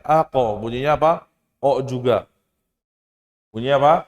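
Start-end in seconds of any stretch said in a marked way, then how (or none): 0.1-0.6 Ako with the bounce lifted upward; raised qalqalah. Shown as a demonstration. Teacher asks class to raise the bounce, lifted Ako. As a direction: lift the end of Ako. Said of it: "Naikin ya".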